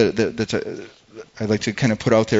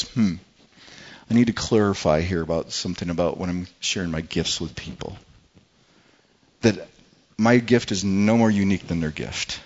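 humble; 3 semitones lower than usual. Retold or imitated. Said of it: "you can hear the humility".

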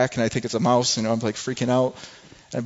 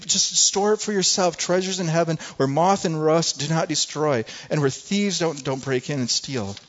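pleading Jesus; 4 semitones higher than usual. Retold or imitated. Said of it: "Jesus keeps pleading with us".

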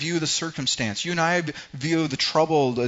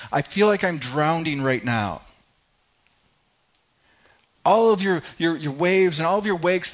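louder and higher, like a man drowning; desperate cry; 4 semitones higher, 4 dB louder than usual. Retold or imitated. Psalmist crying out to God as waves crash, louder and higher. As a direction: gasp it out between waves.

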